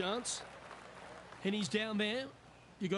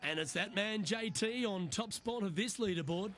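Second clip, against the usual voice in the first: excited golf commentator; 6 semitones higher than usual. Acted. Announcing the tournament leader.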